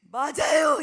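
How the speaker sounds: put-on boy's loud tearful outburst; sobbing shout. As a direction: blurt it out through tears. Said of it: "이러더라고요".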